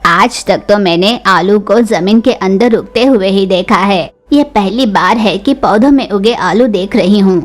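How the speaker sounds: amazed Cheechu. Acted.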